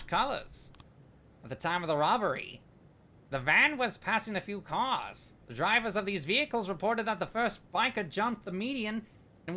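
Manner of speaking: swooping, theatrical cartoon villain voice; Skeletor. Streamer reading a robbery report for a raider, hammy villain impression. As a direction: read the report as a sing-song, hammy villain. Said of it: "I'll now do the Skeletor voice".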